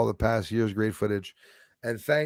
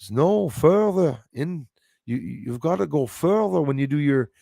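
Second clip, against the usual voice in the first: lightly imitated Scottish troll explaining in his accent; 3 semitones higher than usual. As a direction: drag out the Scottish troll's lecturing. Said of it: "I started picking up his accent".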